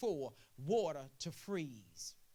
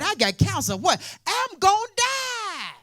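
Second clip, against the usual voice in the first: frightened patient; 12 semitones higher, 13 dB louder than usual. Acted.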